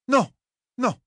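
firmer repeat. Acted. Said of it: "puis elle répéta plus fort".

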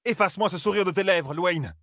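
high, sharp furious order; roaring. Acted. Aiel maiden rebuking a grinning young maiden, furious. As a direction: bite her head off. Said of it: "rugit Souline".

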